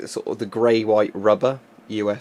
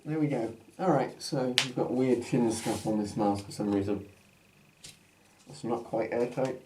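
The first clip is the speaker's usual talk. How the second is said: muffled behind a gas mask; talking through a mask. Real, not acted. Mask put on at line 40.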